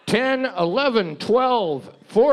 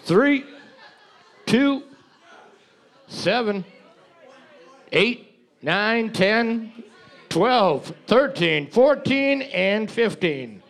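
calling out; 3 semitones higher than usual. Real, not acted. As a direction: call each number out across the room. Reading out winning teams.

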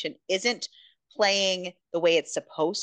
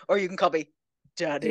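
Daddy dropped much lower; mock-deep drop on the word Daddy; 4 semitones lower, faster than usual. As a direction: let the voice sink low on Daddy, half joking. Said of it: "the voice drops for that boy".

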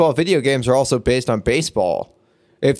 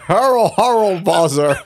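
slow, higher mock German accent; 4 semitones higher, slower than usual. Cohost echoing friend's wizard name, mock German accent. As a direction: imitate a drawn-out German pronunciation. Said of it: "that sounded really German".

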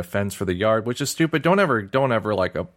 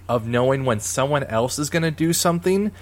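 laughing; 4 semitones higher, 4 dB louder than usual. Real, not acted. Laughing at her own sixth sense.

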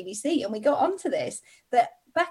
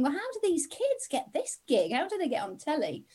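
hushed, wondering thought; quiet awe, as if thinking aloud; mesmerised; 5 semitones higher, 7 dB quieter than usual. Retold or imitated. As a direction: softly marvel to yourself. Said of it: "I was mesmerised and thinking".

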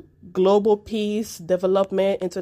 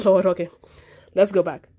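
ordinary talk

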